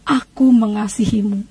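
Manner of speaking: slow, measured retold voice; suara di telinga. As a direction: say it slowly, as a voice heard at the ear. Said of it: "saya dengar suara di telinga saya". (suara lirih pelan di telinga)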